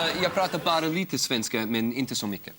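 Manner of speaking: Swedish spoken with a Stockholm accent. Shown as a demonstration. Host showing a Swede some Swedish, Stockholm accent. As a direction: speak Swedish as learned in Stockholm. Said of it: "I speak with a Stockholm accent".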